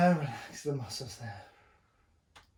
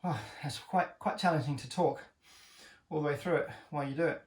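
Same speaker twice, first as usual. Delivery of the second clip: breathless from the workout; out of breath. Real, not acted. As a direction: talk between heavy breaths. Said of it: "sorry about my breathing".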